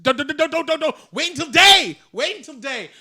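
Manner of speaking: high, frantic mock scream; retold horror-movie screaming; re-enacted screaming. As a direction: cry out in a high, urgent plea. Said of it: "I think I was screaming".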